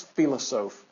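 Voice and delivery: "philosophe" said the French way, fee-lo-ZOF, stress on the last syllable; French pronunciation. Shown as a demonstration. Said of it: "The French word philosopher was".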